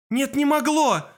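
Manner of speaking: high, slow vehement denial; hissed. A narrator's reading. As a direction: insist bitterly against comfort. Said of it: "прошипел Кол".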